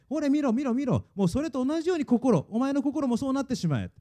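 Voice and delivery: lightly acted devil, goading the listener; devil's taunting. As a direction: press the taunt home as the devil. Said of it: "悪魔はこう言いますね".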